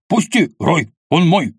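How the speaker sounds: shout, straining to get free; angry yell. A narrator's reading. Kvas yells at Roy to let him go, loud and high. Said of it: "заорал Квас".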